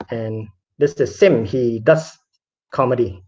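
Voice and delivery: slow, falling, underwhelmed introduction; unenthusiastic introduction. Retold or imitated. Comedian introducing the odd one out, unenthusiastic. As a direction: let it sag, pausing before the last word. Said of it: "One of these introductions is not the same".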